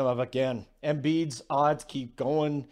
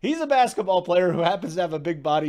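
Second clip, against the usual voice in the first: bad Walton impression; 3 semitones higher, 5 dB louder, faster than usual. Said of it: "this thing just keeps getting worse".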